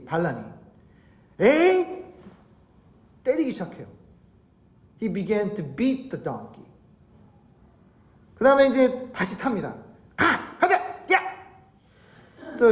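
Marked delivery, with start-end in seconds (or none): 1.4-2.0 high, sharp mock-angry cry; angry outburst. Balaam loses his temper at the donkey, angry outburst. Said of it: "화를 내기 시작합니다". 10.2-11.2 short, high riding calls; urging a mount. Acted. Balaam back on his donkey, urging it forward.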